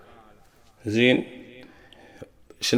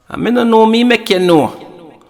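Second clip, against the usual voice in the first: put-on girlfriend's phone voice; 10 semitones higher, 3 dB louder than usual. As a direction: imitate the girl playing innocent on the phone. But you not hear female voice.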